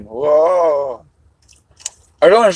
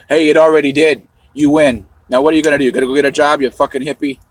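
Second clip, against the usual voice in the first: mock taunt; 3 semitones higher, 6 dB louder, faster than usual. Taunting the game character loudly.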